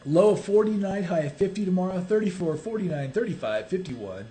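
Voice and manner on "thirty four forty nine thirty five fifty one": auctioneer. Pretend. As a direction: rattle off numbers like an auctioneer, deeper. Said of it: "That's what you sound like, an auctioneer".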